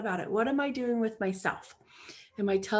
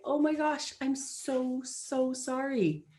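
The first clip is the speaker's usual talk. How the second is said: apologetic; 2 semitones higher, slower than usual. Retold or imitated. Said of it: "I can say".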